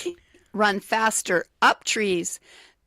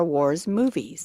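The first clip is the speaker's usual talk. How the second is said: whisper; 3 semitones lower, slower than usual. Acted. Whispering the fact's last words.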